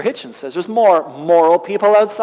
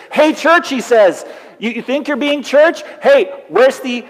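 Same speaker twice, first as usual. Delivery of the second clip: voicing God's rebuke, a touch louder; a lightly voiced God scolding the church; God rebuking church; 4 semitones higher, 3 dB louder than usual. Preacher voicing God rebuking the church, stern. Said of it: "things God says to critique".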